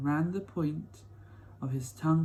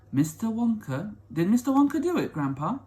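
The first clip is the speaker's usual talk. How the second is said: put-on eager boy; 6 semitones higher, 4 dB louder than usual. Charlie eagerly asks Grandpa.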